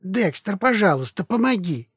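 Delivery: high pleading squeak; squeaking in pain. Acted. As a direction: beg in a thin squeal. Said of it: "снова запищал от боли".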